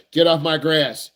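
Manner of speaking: slow, mock-stern get-off-my-lawn; a hint of a cranky homeowner; grumpy parent. Parent scolds a teen driver on the grass, mock grumpy.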